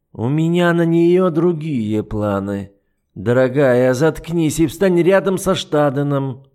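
lightly voiced icy duke, mocking; an understated sneer; a hint of the cold duke. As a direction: toy with her calmly. The duke orders silence.

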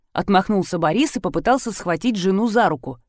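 ordinary delivery

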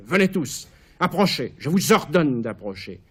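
high, loud calling out; imperious summons. Acted. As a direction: command the whole hall. Caligula appelle les patriciens. (appel impérieux aux patriciens)

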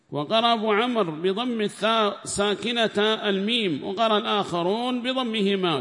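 formal text reading. Acted. Reader reads the tafsir aloud in class, loud and formal.

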